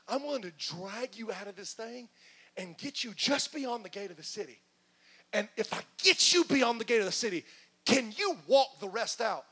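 from hushed to loud plea; pleading God, building. Acted.

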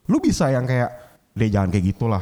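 venting at the sous chef who reported him; retold angry rant. Angry retort to the sous chef who reported him.

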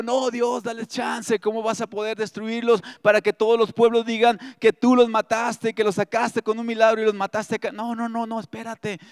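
lightly acted pleading, rushing onward; Moses. Preacher as prophet begging God to spare the people, mild pleading. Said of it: "pero Moisés dijo".

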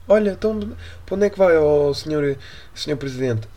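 high, eager reporter asking the president; lightly voiced reporter pestering the president. (repórter entusiasmado com voz aguda)

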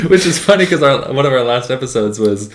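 talking with a plugged nose; nose stuffed with tissue; tissue up one nostril. Real, not acted. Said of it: "I have some tissue up my nose right now".

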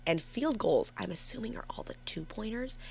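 hushed thinking aloud; whispering. Real, not acted. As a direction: whisper while reading the chart. Thinking aloud under breath.

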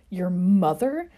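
slow, loud disgusted disbelief; incredulous spit. Acted. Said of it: "James spat with incredulity".

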